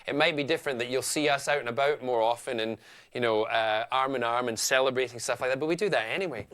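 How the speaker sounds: light Scottish accent, easy and chatty. Shown as a demonstration. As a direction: talk it through in a mild Scottish accent. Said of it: "here I am now talking Phil Scott to you".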